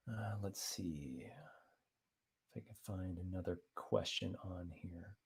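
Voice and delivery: very soft, slow murmur to oneself; under the breath. Real, not acted. Host scanning chat for another question, murmured under the breath. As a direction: murmur it slowly while searching. Searching the chat, talking to himself.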